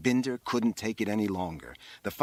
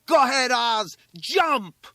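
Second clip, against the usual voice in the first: put-on high, loud boy's shout; egging him on; 14 semitones higher, 7 dB louder, slower than usual. A narrator's reading. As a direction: urge a friend on at a yell. Classmate eggs boy on, shouting.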